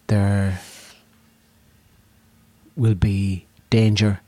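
slow, grand pitch with long dramatic pauses; mock wizard's offer. Wizard tempting the young fella with adventure, slow and grand. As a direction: sell an adventure like a solemn wizard.

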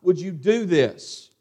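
slow, mildly outraged questioning; acted dismay, words stretched out; upset. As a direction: reproach slowly, as if outraged at wrongdoing. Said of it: "He's upset. He's like".

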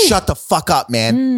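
stern teacher. Retold or imitated. Buddy telling off talkers in the theater, mild stern teacher. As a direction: imitate a teacher telling someone off. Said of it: "like a teacher".

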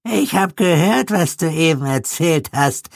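put-on very high reedy old man; thin falsetto of an old man; high reedy old codger. A narrator's reading. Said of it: "sagte eine fistelige alte Stimme".

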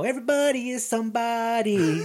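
amused, chuckling through the slogan; half-laughing mock inspiration; laughing quote. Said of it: "this whole inspirational thing".

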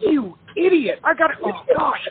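high, squeaky panic at the emcee; a flustered inner yelp; mock panicked self. Singer backstage in tears, cursing the emcee with a high panicked yelp. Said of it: "I'm like".

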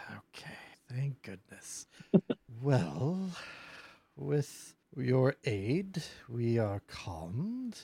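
slow, measured phoenix voice, lightly voiced; unhurried, solemn thanks from a great bird; grateful phoenix. Phoenix thanking the party for calming it, slow and grave.

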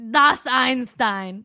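loud, drawn-out German announcement; slow mock-German proclamation, hit hard; German accent. Man reveals who the famous Einstein is, German accent. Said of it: "not even gonna attempt a German accent anymore".

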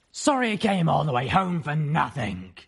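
cold, flat and dismissive; flat griffin voice. Acted. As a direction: brush him off flatly. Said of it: "she told the zebra flatly".

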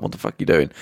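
breathy, voiceless mock whisper; whispered disbelief. Refugees baffled at the film crew, whispered. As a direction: hush it out, baffled. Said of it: "the refugees are like".

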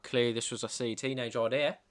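posh Australian dad, lightly put on; posh Australian accent. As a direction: read it like a posh Sydney father. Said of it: "That's would have been what he sounded like".

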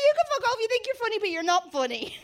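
put-on retelling a drunken row with an actor, shouting. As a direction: tell him off at full volume.

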